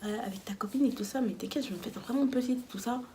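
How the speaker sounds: soft, small imitated begging; cute pleading. Asking friend to let her sleep nearby, cute pleading. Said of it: "J'étais trop comme ça".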